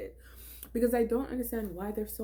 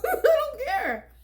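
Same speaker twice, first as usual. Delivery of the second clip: laughing dismissal; 8 dB louder, slower than usual. Real, not acted.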